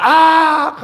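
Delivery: wife's startled scream "악!" pitched high; mock shriek at a cricket; retold scream. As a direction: shriek out a short 악 like a frightened wife. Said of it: "아내가 소리를 질렀습니다".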